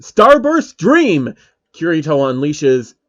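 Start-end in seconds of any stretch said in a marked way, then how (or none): 0.0-1.3 loud, high, slow move name; attack callout. Acted. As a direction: call the skill out. Kirito calls special attack.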